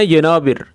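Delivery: यनाबिर said slowly, each syllable clear; Arabic month name. Shown as a demonstration. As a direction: say यनाबिर carefully like a teacher. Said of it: "जनवरी को बोलते हैं". (अरबी उच्चारण में यनाबिर)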